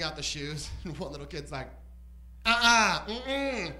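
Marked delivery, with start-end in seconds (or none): 2.4-3.7 put-on loud, higher caricatured African child accent; mock African kid accent. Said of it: "that's my accent for starving kids in Africa".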